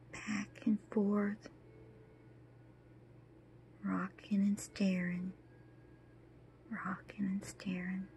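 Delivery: dazed, hushed recollection; numb trance. Acted. Widow recalls rocking in shock.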